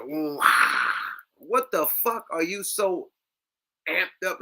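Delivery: a hint of the guest's wild grunting; mocking the guest. Mocking the guest's outburst in the clip, lightly. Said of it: "That nigga said".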